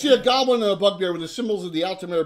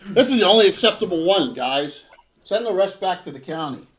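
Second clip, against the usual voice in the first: put-on picky old gentleman; 5 semitones higher, 7 dB louder than usual. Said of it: "he says that to everyone but you".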